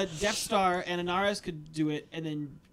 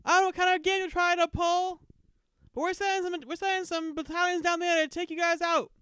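gruff guard voice; 11 semitones higher than usual. Acted. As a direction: bark threats down from a tower.

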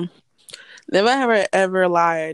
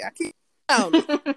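higher, slow put-on voice; hammed-up nonchalant; mock casual; 8 semitones higher than usual. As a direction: say it like you're playing it cool. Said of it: "I'm like".

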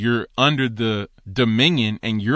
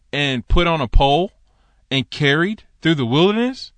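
high, loud, odd voice, rising to a shrieked what; incredulous rant; 8 semitones higher, 3 dB louder than usual. Retold or imitated. Preacher retelling his reaction to the teacher, incredulous high rant. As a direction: pile on the disbelief.

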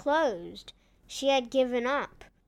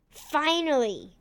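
Finally! punched with villain glee; emphatic exclamation; 3 semitones higher than usual. Acted.

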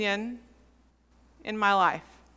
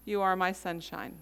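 softly imitating a mother's lullaby, pitched low; quiet, low voice; 4 semitones lower, 8 dB quieter than usual. Mother comforting her crying child after the shot, quiet and low. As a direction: recall the song in a hushed, low tone. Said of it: "sing in a very quiet, low voice".

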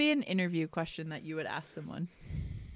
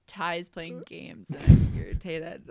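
slow, louder mock irritation; Taylor's irritated texting voice; 5 dB louder, slower than usual. Friend making up a voice for a text, mock irritated. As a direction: read the text as a mild grumble. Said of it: "I'm just making up her voice behind it".

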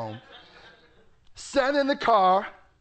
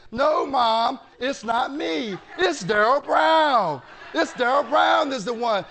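retold tearful protest; 5 semitones higher, 3 dB louder than usual. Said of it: "I just started crying and crying".

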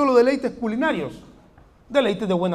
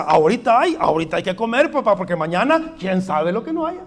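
imitating the poor man; 4 dB louder than usual.

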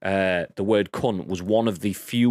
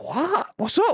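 much higher, puzzled what's up; feigned innocence; slower than usual. Retold or imitated. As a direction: play dumb, high and startled. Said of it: "and I was like".

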